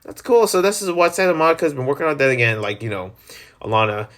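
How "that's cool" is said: pleasantly shocked. Retold or imitated. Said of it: "I'm like".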